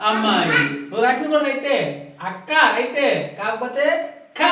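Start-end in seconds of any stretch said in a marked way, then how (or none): 4.4-4.5 కా pronounced firmly, long aa; firm stress. Shown as a demonstration. Teacher showing children the conjunct, కా said firmly. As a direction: press on the కా sound. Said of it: "గట్టిగా పలికామా మనము".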